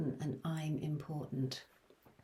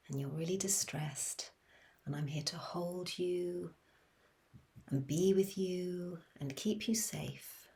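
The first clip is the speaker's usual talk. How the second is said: calm soothing voice. Shown as a demonstration. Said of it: "using my voice in a very calm and soothing way".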